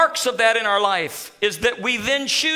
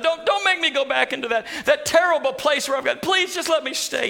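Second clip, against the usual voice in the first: higher, eager begging to stay; mock pleading; 5 semitones higher than usual. Imagined Naaman begging the prophet Elisha, mock pleading. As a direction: plead like a healed man desperate not to go home. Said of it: "Naaman is not saying".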